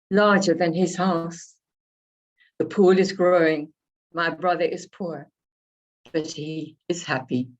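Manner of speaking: unhurried poem reading with pauses between images; reading her own poem to an audience; poetry reading. Acted. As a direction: let each image land before the next. Reads her prose poem Family.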